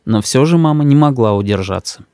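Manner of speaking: ordinary delivery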